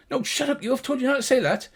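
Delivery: high voice, fast scolding; annoyed gnome. Acted. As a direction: hush your mate quickly. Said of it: "And he goes".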